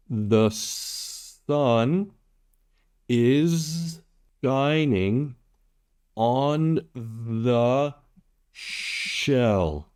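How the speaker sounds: each word spaced out, "shell" falling at the end; a first, steady read of the sentence; word by word demo. Shown as a demonstration. Tutor modelling number five for Vietnamese learners, words spaced apart. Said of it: "One more time".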